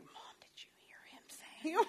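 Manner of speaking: high, hushed scandalized whisper; shocked whisper. Retold or imitated. Kids telling mom about a rude kid, in a shocked whisper. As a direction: whisper it like a horrified child.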